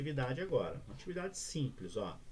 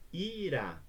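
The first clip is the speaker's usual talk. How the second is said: "Irá" stretched into two beats, high; syllable by syllable; 5 semitones higher than usual. Shown as a demonstration. Teacher demonstrating a two-syllable word, syllable by syllable. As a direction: draw out "Irá" as i-rá. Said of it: "duas sílabas".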